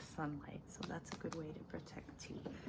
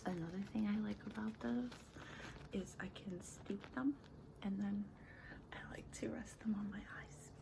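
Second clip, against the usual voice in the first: whispering; 2 semitones higher than usual. Acted. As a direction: whisper it close to the mic. ASMR whisper about tea.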